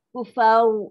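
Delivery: Kufau ending in pouted lips, ra turned to au; wrong rounded Kufau. Shown as a demonstration. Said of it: "bukan muncung".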